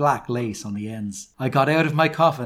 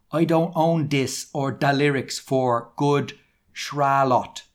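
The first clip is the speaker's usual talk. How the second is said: slow, emphatic misspelling read-out; mock rant, word by word; all-caps author's note; 2 semitones higher, slower than usual. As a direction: sound out every misspelling deliberately. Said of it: "In caps".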